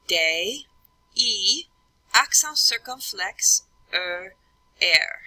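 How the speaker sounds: French letter names with clear gaps between; teacher's deliberate French spelling, letter by letter; French spelling aloud. Shown as a demonstration. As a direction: spell "day, E, accent circumflex, E, R" in French. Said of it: "This one I'd say".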